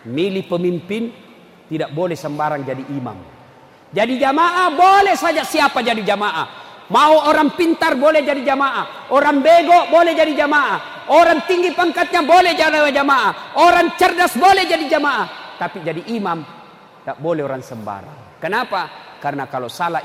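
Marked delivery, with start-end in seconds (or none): 3.9-15.6 raised, rhythmic sermon delivery; high, forceful pulpit cadence; impassioned preaching. Real, not acted. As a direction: hammer out each sentence like a preacher.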